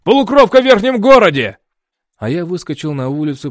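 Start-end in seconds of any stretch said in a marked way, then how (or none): 0.0-1.6 high, loud panicked shout; redheaded guard yells to call everyone; yelling. A narrator's reading. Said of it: "кричал Рыжий".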